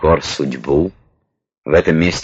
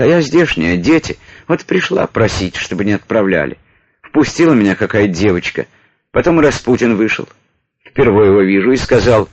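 higher, lightly voiced pleading woman; woman petitioner voice; 5 semitones higher than usual. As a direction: tell it as a distressed soldier's wife. Narrator voices the weeping petitioner. (голос просительницы)

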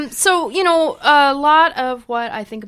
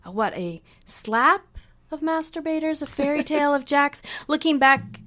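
measured, rhythmic poem recital; poetry reading. Acted. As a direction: read it like a spoken-word poem. Reads own poem aloud.

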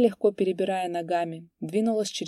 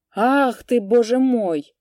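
much higher, louder cry of dismay; dismayed outburst; 5 semitones higher, 8 dB louder, slower than usual. A narrator's reading. Headman cries out as the horses are stolen. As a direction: throw up your hands in shock.

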